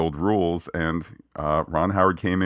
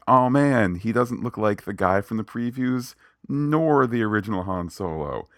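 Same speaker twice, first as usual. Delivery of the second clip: surprised; 5 semitones higher, 3 dB louder than usual. Retold or imitated. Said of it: "I was like".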